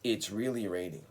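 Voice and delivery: It's really raining said clearly for students to copy; model sentence. Shown as a demonstration. Teacher modelling the phrase for repetition, clear model. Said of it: "Please listen and repeat".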